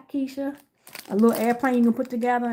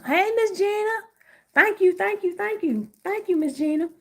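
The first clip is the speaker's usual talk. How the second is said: 1 excited thanks; 10 semitones higher than usual. Real, not acted. Thanking a viewer on live.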